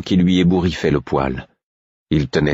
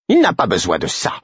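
put-on curt old woman; 3 semitones higher than usual. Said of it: "fit une vieille femme d'un ton sec".

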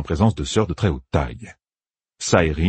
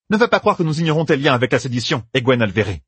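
raised voice, anger almost shaking it; barely held anger; 7 semitones higher than usual. Acted. Yukiri threatening Egwene, barely controlled anger. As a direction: hold the fury just under. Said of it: "la colère faisant presque trembler sa voix".

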